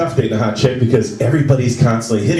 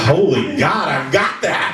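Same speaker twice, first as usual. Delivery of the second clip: mock panic; 4 semitones higher, much slower than usual. Acted panic reading symptoms.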